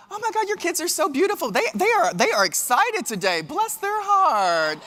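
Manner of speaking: high, sweet, mock-pitying voice; sweet passive-aggressive Southern church lady; sugary Southern lady. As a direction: drip with fake sympathy, stretch out the blessing. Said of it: "they're like".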